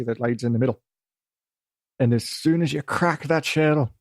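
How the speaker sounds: lightly put-on Scottish accent; a hint of Scottish storyteller accent. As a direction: slip back into a loose Scottish brogue. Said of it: "in this accent".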